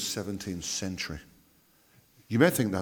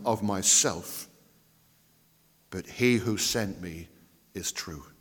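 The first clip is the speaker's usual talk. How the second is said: solemn declaiming; 5 dB louder, slower than usual. Acted. Preacher declaims Jesus' words.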